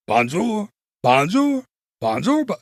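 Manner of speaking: mock chorus of townsfolk greetings; recital. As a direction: call it out like different villagers in a musical. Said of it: "I will recite it for you".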